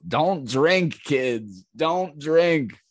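put-on high, emphatic advice to kids; mock public warning. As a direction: punch each phrase like a comic cautionary lesson. Mock warning to young viewers.

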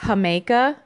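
JAMAICA with a breathy H, "ha-MAY-ka"; Spanish pronunciation. Shown as a demonstration. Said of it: "but it's pronounced".

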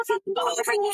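high, sarcastic mock boredom; teasing fake disdain. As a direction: toss it off as playful sarcasm. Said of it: "I'm like".

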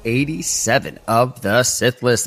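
upbeat podcast welcome; show host intro. Acted. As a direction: welcome listeners with energy.

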